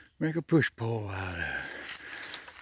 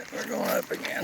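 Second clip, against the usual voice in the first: winded from the climb; breathless, pushing uphill; out of breath; 3 dB quieter than usual. Real, not acted. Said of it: "Makes me out of breath".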